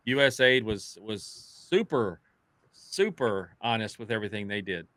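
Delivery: drawn-out "super", deadpan sarcasm; mock praise, lingering on each "super"; sarcastic. Real, not acted. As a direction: stretch out the praise so it's plainly insincere. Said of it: "Sorry, I got sarcasm".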